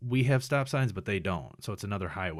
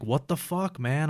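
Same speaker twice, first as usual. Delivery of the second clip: higher-pitched, mildly exasperated retelling; retold anger; 5 semitones higher, slower than usual. Patient strapped down in ambulance, retold angry protest. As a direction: replay your pissed-off protest at a higher pitch. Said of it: "I'm pissed".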